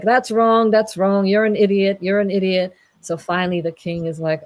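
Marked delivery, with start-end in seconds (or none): 0.0-2.7 mock-angry rapid-fire dismissal; angry knight. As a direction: scold like an irritated knight. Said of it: "the angry knight is like".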